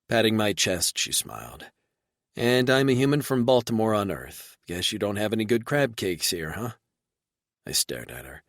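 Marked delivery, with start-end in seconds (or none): 2.4-6.8 higher, playful; woman joking about home; light playful female voice; lightly voiced woman. Reba joking.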